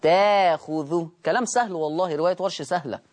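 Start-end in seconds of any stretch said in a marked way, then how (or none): 0.0-1.1 تاخذه slowly, first vowel held long without a catch; hamza turned to alif. Shown as a demonstration. Teacher repeats for class, slow تاخذه without hamza. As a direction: stretch the aa in تاخذه, dropping the hamza. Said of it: "فتقرأ".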